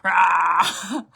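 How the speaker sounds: loud roar, retold; startling boo. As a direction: roar again for the scare. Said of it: "My eyes were like".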